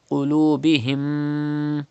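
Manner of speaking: قلوبهم with the mim hummed through the nose for two beats; nasal ghunna. Shown as a demonstration. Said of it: "keep the sound in your nose up to two harkat like this".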